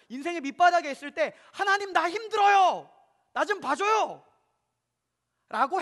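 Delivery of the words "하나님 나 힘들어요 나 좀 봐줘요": high, loud, slow plea; crying out to God. Pretend. Believer in trouble crying out to God, high and loud. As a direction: cry out to God from rock bottom. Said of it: "소리치는 겁니다".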